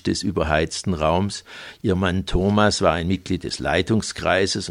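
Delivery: measured literary reading voice; novel reading. Acted. Author reading his crime novel to listeners, measured reading voice. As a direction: read the passage to the audience.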